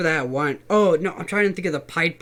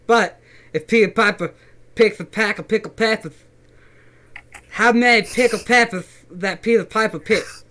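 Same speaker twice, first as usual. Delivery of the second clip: talking with a retainer in; tongue twister with a retainer in. Real, not acted. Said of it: "I'm gonna try to do that with my retainer in".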